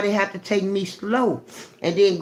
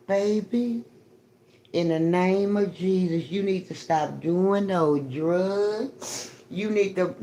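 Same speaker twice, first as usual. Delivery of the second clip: soft, slow churchy plea to a street stranger; mock preacher plea; 4 dB quieter, slower than usual. Pretending to preach to someone on the street, soft and slow. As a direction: lay a gentle sermon on them, slowly. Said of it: "be like".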